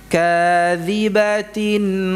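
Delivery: slow chanted tajwid recitation; Quran recitation. Shown as a demonstration. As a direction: chant the verse slowly, every letter clear. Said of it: "Coba ulangi".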